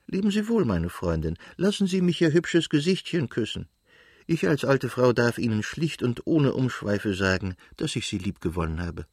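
a hint of an affectionate old lady saying farewell; fond old countess.

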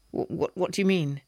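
flustered stammer. Acted. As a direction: trip over the words nervously. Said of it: "I stammered".

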